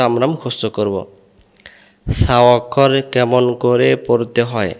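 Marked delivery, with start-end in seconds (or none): 2.1-4.7 slow, measured drilling chant; teacher's drawn-out rote recitation; memorization recitation. Shown as a demonstration. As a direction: recite it evenly, syllable by syllable.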